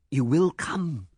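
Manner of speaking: emphatic and sure; insistent. A narrator's reading. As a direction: declare it as settled, with force. Man seizes on her consent.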